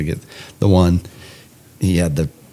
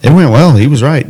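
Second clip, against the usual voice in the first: high and loud through laughter; laughing; 10 semitones higher, 8 dB louder than usual. Real, not acted. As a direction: crack up while admitting it. Laughing admission.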